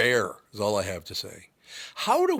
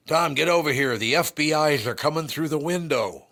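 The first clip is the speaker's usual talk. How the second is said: grandpa impression; 6 semitones higher, 5 dB louder than usual. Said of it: "he says to me".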